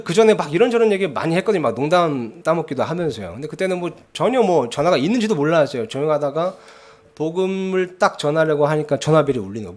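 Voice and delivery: ordinary talk, nothing marked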